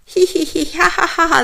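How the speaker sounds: loud, high cackling hee-hee-ha-ha; gleeful prankster laugh; monster's laugh. A narrator's reading. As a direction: giggle at the trick you pulled. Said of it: "the metal monster laughed".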